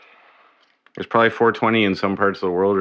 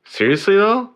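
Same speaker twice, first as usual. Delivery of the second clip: exasperated disbelief; 12 semitones higher, 4 dB louder than usual. Real, not acted. Frustrated with cables.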